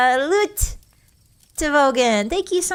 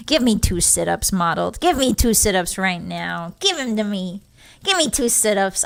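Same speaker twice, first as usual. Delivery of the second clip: mock drill coach; 5 semitones lower than usual. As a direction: lower mock coach voice barking orders. Playing a drill coach to viewers.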